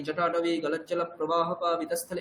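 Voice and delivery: জটাটবি গলজ্জল প্রবাহ পা বিতাস্থলে rattled off quickly; fast chant of জটাটবি গলজ্জল; quick recitation. Shown as a demonstration. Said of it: "এরকম করে তাড়াতাড়ি করে বলতে".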